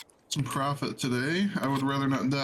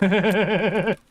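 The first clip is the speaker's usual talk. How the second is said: sudden loud burst; 5 semitones higher, 8 dB louder, slower than usual. Real, not acted.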